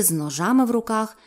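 plain reading voice

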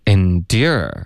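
ENDURE with "dyer" gliding on the tongue; gliding vowel. Shown as a demonstration. Teacher introducing the second word, careful glide demo. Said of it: "它也有滑动".

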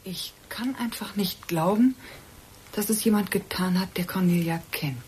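stunned, barely breathed whisper. Acted. Woman in shock about her friend's murder, whispering. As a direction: whisper it as if you can't believe it.

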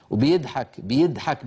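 "بيضحك" with a plain Egyptian d; "بيضحك" بالدال الخالصة; pure d for ض. Shown as a demonstration. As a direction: say "بيضحك" as "بيدحك". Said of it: "بالدال الخالصة".

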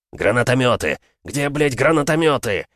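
furious officer yelling into radio; angry yelling. Acted. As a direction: demand it, swearing, high and loud. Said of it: "орал другой офицер в рацию".

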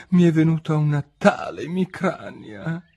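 high, put-on plaintive voice; complaining king. A narrator's reading. King excuses himself to the queen, complaining.

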